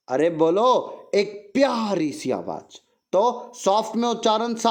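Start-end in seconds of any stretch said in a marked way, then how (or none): 0.1-2.8 sweet voice. Shown as a demonstration.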